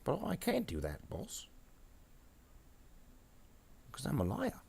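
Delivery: high, small grot voice; protesting grot minion. Acted. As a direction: squeak a protest to the boss.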